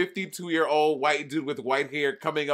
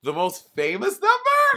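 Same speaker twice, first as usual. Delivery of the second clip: stalling echo; 4 dB louder, slower than usual. Real, not acted. Stalling on a question.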